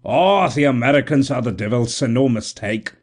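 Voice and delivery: excited Irish brogue; Irish exclaiming. Acted. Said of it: "he exclaimed".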